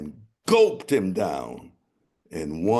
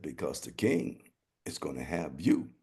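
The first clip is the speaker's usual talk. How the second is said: gruff rider; 3 semitones lower, 6 dB quieter than usual. Acted.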